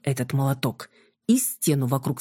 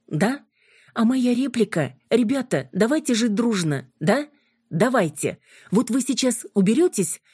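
sarcastic; 7 semitones higher than usual. Acted. Юля язвит, выгоняя гостей.

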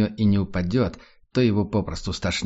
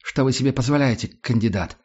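commanding; 3 semitones higher than usual. Acted. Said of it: "всё тем же командным тоном".

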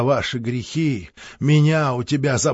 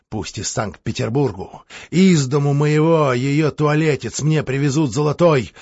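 rambling; 2 semitones higher than usual. Acted. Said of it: "бессвязно сказал Григорий".

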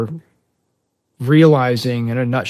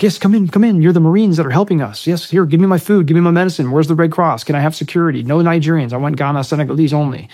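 high, loud, excited stream of welcomes and requests; eager villagers; 6 semitones higher, 7 dB louder than usual. Retold or imitated. Villagers welcoming Marines who bring food and security, imitated eager clamor.

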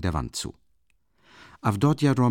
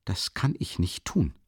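a touch of hurt, slowed down; hurt refusal; 2 semitones higher than usual. Acted. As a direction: turn him down, stung. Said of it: "lehnte sie gekränkt ab".

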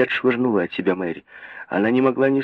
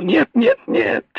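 shrill, much higher cry of no; howling; 12 semitones higher, slower than usual. A narrator's reading. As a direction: wail the refusal. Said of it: "вопила мать".

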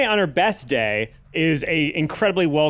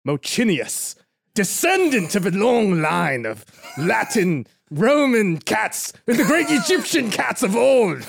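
grandiose proclamation; 5 semitones higher than usual. Pretend. Grand proclamation of cat lineage.

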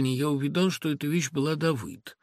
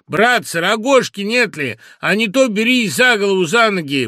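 calling out; 7 semitones higher, 9 dB louder than usual. A narrator's reading. Man calling to the crowd.

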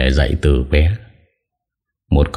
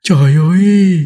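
high, louder gasp of horror; shocked cry; 3 dB louder than usual. Acted. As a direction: cry out in disbelief. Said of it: "đều thốt lên".

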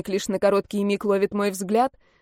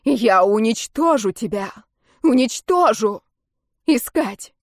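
loud, furious vow; enraged heroine swears vengeance; raging threat; 5 dB louder than usual. Acted. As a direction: hurl the threat at the enemy. Raging threat after the yell.

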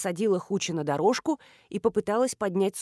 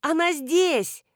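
called answer; 7 semitones higher, much slower than usual. A narrator's reading. Answering a shout.

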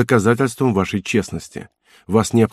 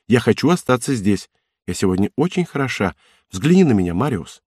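Cosette, playful. Acted. Cosette's lines in the novel.

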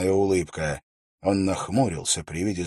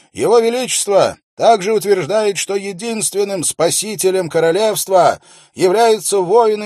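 loud, high proclamation to the crowd; confident royal steward; 11 semitones higher, 7 dB louder than usual. A narrator's reading. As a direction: read the decree out with confidence. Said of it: "но он звучал достаточно уверенно".

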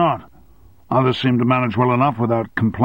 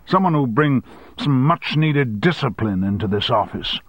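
higher, raised scolding; angry boss; 5 semitones higher than usual. Acted. Boss threatening his secretary, rising anger. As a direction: warn her off, then pile it on.

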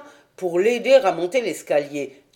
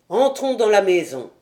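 authoritative tone; 2 semitones higher, 5 dB louder than usual. Acted. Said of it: "de son ton autoritaire".

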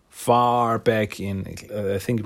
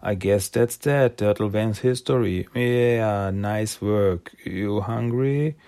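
slow, dazed trance voice; zombie-like trance; much slower than usual. Retold or imitated. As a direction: drone it like a hypnotised zombie. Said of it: "like zombies".

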